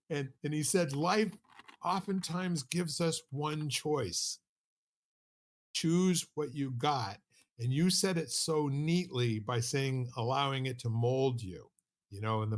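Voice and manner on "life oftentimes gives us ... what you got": slow, measured delivery of the moral; wise closing lesson. Retold or imitated. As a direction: let the lesson land, slowly.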